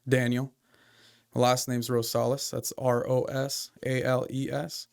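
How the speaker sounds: slow, clear spelling for note-taking; dictating. Shown as a demonstration. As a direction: spell it out slowly, letter by letter. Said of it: "first write down my name".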